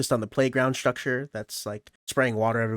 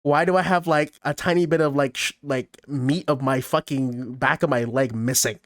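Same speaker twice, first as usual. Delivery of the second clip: retold panic; 2 semitones higher, 3 dB louder than usual. Boy seeing his torn Achilles, voicing mounting panic. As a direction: let the horror sink in. Sees chunk missing from leg.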